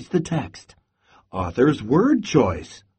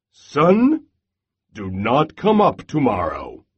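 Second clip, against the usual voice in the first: loud command; 3 dB louder than usual. Acted. Bear orders the sun from full height, loudly. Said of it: "spoke in a loud voice".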